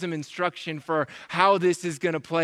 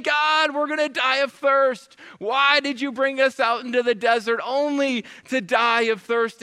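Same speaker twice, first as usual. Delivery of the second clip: higher wail easing into complaint; mock crying out; 4 semitones higher than usual. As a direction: imitate desperate people protesting to God. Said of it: "the people start crying out again".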